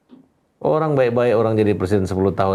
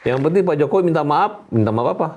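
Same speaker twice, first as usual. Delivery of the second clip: incredulous; 5 semitones higher than usual. Real, not acted. Incredulous retelling of demands.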